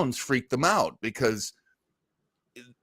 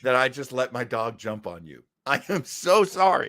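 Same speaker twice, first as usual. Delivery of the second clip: mock apologetic dog owner.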